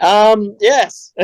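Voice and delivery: high, unsure "um, yes"; imitating the baffled customer; a hint of a startled customer; hesitant customer. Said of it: "they're like".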